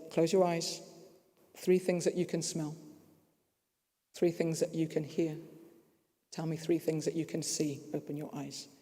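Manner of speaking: lightly voiced therapist, softening toward the end; retold mindfulness guidance. Therapist guiding a panicky patient through mindfulness, calm. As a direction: guide gently with long pauses between prompts. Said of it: "She also taught me the mindfulness piece".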